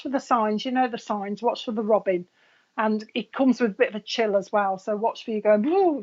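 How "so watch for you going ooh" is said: mock ooh. Shown as a demonstration. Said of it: "like this".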